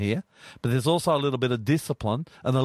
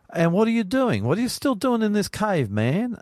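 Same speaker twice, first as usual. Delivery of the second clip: high, louder voice of God scolding; God's voice raised high and loud; voicing God; 10 semitones higher, 3 dB louder than usual. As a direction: play God calling Elijah out of the cave, pitched up. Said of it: "And the voice says".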